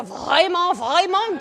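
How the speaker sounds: "vraiment" rolled easily from the back of the throat; rolled French R. Shown as a demonstration. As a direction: let "vraiment" roll out effortlessly. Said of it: "it rolls right out".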